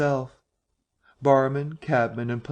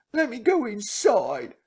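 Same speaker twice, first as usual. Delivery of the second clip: high shrieking beg; terrified plea; 10 semitones higher than usual. A narrator's reading. Marvel begging to hide as the door is struck, shrieking. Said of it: "shrieked aloud".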